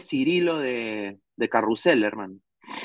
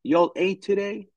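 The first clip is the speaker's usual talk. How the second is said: slow, raised Southern US drawl; Southern US accent; 5 semitones higher, slower than usual. Shown as a demonstration. Demoing Florida Southern US speech to chat, slow Southern accent. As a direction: put on a Southern US accent and take your time. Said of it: "El sur tiene un estilo al hablar el inglés".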